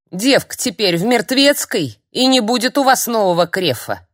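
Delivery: put-on loud, high furious old hag; old crone blaming the witch, loud; angry crone tirade. A narrator's reading. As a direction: berate her, building in rage.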